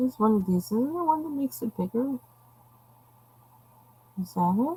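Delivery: soft, high-pitched murmur, thinking aloud to oneself. Working on a drawing, looking for a tool; talking high-pitched. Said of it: "I'm talking so high pitched".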